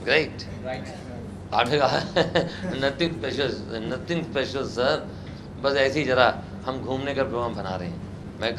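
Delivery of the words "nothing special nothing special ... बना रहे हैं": casual student reply. Retold or imitated.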